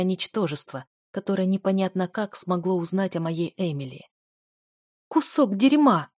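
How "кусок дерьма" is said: higher, louder, slow snarl; furious growled insult; growled curse. A narrator's reading. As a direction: spit it out in fury. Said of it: "зарычала Дель".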